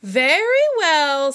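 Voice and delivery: slow, giving in; a touch of a reluctant elephant; mild resigned agreement; resigned Horton. Acted. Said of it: "said the elephant".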